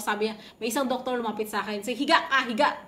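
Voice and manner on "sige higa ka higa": scolding order. Retold or imitated. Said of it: "pinagalitan ako".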